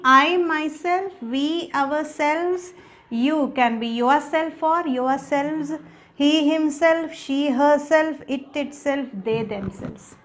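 measured recital of a word list; say-along recitation. Shown as a demonstration. Teacher leading students through the pronoun list, say-along recitation. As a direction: recite slowly for others to repeat. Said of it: "Say once again with me".

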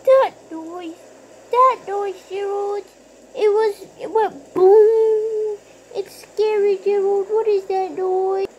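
frightened pleading. Acted. Terrified of thunder, pleading.

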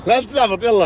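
loud and high "لا تستعبط" with stress on "لا"; excited disbelief. Real, not acted. Friend shouting in disbelief at the car gift. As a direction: shout it, not believing it.

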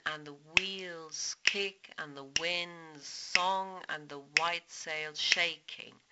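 slow, rhythmic reading of "And the wheels kick"; reciting the poem. Shown as a demonstration. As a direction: lean into each beat of the line, slowly. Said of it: "In the next line".

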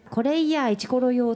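a touch of flirty Hiroshima dialect; lightly put-on Hiroshima dialect come-on; Hiroshima dialect line. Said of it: "胸キュン広島弁講座".

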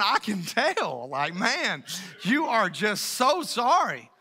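slow, dry sarcasm; sarcastic reply. Retold or imitated. Parent answers daughter's fake apology, slow sarcasm. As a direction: drawl it out with heavy sarcasm. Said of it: "you're just going".

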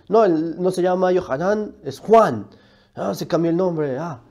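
lightly mocking imitation of the rival. Vlogger lightly mocking the other youtuber's name complaint. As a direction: parody his complaint with a scoffing edge. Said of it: "empieza a decir la misma idea".

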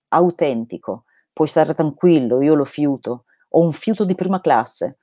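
steady, measured reading of a novel; story narration. A narrator's reading. Reading Laurus aloud to listeners, calm narration.

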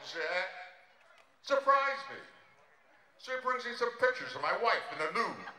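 a lightly done Dangerfield voice, exasperated and self-pitying; Rodney Dangerfield impression. Comic on stage doing a Dangerfield set, self-pitying. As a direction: play it like a put-upon comic who gets no respect.

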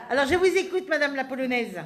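real laughter while teasing; laughing. Real, not acted. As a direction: tease her with a laugh in the voice.

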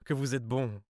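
high, loud burst of grateful relief; relieved exclamation. A narrator's reading. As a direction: cry out your thanks, overwhelmed. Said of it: "Elle s'écria".

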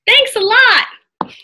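high, slow called thanks; shouting thanks. A narrator's reading. Annie shouting thanks to the serpent. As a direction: call after the departing monster. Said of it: "shouted Annie".

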